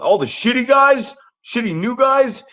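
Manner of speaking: high, loud teasing yell; joking shout. Retold or imitated. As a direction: razz the kid with a big mock shout.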